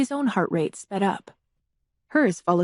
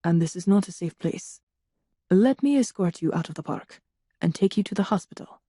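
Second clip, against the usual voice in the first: soothing; 2 semitones lower than usual. A narrator's reading. Drongowe coaxing Melissa out of the park, soothing. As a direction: lull her into calm. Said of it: "pitching his voice to a soothing timbre".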